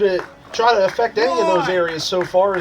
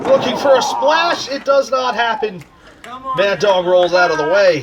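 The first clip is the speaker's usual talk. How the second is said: wrestling commentator. Acted. Play-by-play over wrestling game.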